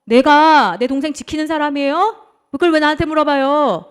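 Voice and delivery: loud, drawn-out defiant retort; talking back. Acted. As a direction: throw the question back indignantly. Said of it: "하나님 앞에 말대꾸합니다".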